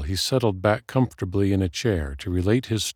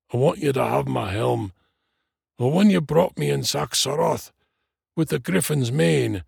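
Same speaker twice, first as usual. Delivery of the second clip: put-on calmer, higher old dwarf voice; dying dwarf; 7 semitones higher than usual. A narrator's reading. Dwarf leaving his helm to his friend, earnest dying voice. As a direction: bequeath it in the dwarf's high voice.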